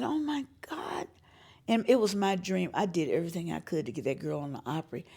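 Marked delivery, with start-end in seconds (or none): 0.0-1.1 whispered, slow and awed. Retold or imitated. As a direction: breathe it out in wonder. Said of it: "And I said".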